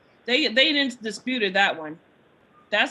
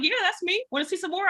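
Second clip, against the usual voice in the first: brazen retort; 8 semitones higher, 4 dB quieter than usual. Retold or imitated. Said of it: "I'm like".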